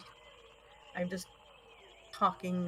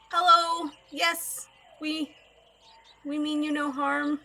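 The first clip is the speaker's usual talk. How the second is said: lightly acted, higher-pitched greeting to a stranger; in-character greeting; 8 semitones higher, 6 dB louder than usual. Adventurer assuring an approaching stranger of no harm, high-pitched greeting. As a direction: hail them in a raised voice, peaceably.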